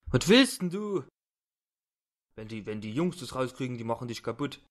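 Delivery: a lightly voiced thug blustering threats; defiant thug. Captive thug threatens his kidnapper, lightly voiced bluster. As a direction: bark back, then fumble the words.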